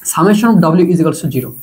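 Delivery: very slow, every word spelled out; slow dictation. Real, not acted. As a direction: dictate it slowly for notes. Dictating the key formula.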